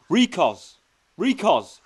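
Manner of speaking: loud call down a corridor. Acted. Prisoner calls for the guard from the cell. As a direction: shout for the guard.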